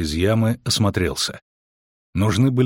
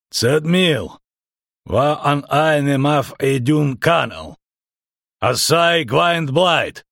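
calling out; 5 semitones higher, much slower than usual. A narrator's reading. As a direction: call out to the unseen archers. Calling out to hidden archers. (громкий призыв)

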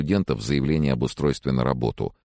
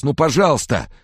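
high-pitched, piteous begging; babbled plea; 12 semitones higher, 4 dB louder than usual. A narrator's reading. Sick man begs friend to visit, babbling piteously. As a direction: plead like a helpless child. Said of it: "пролепетал Фрэнсис".

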